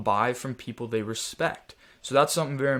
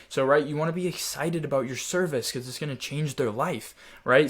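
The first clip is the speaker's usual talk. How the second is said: a touch more upbeat; enthusiastic tone. Shown as a demonstration. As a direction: pick up the energy a little. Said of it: "my tone even there just picked up".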